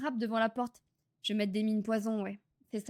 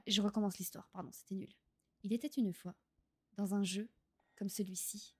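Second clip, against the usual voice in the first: storytelling voice; 3 semitones lower, 5 dB quieter than usual. Acted. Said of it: "je vais vous raconter une histoire".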